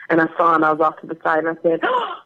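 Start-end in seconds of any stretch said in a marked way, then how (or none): 1.8-2.1 very high, slow, drawn-out coo; adoring swoon. Retold or imitated. Actress spotting her co-star at the premiere, high adoring swoon.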